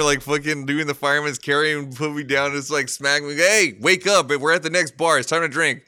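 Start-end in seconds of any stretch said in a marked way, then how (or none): 3.4-5.8 mock wake-up call. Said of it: "walk into a bar".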